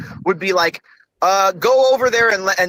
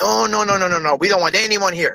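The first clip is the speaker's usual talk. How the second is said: put-on Japanese accent. Imitating a polite refusal to outsiders: put-on japanese accent. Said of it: "your Japanese man accent Mexican".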